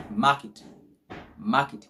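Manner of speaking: "market" as MAR-kit, second vowel barely there; silent-E pronunciation. Shown as a demonstration. Teacher models the word for learners, E nearly silent in "market". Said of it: "So we say market".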